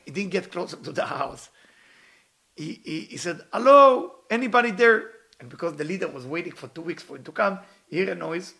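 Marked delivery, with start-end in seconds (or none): 3.5-5.1 loud, high call into the distance; acted long-range shout. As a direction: holler to find out who is home. Acted calling out toward a house.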